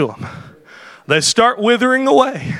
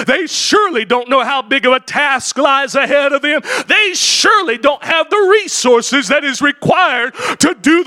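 mocking Tobiah; 4 semitones higher than usual. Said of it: "old Tobiah the Ammonite, he steps up. He said".

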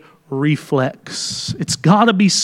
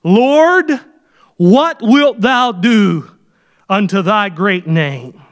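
Joshua's slow lament; much slower than usual. Retold or imitated. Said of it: "Notice how he ends verse nine".

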